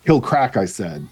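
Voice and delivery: story reading with character lines; reading aloud haltingly. Acted. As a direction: read the chapter aloud, a bit haltingly. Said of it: "I apologize for my poor reading skills".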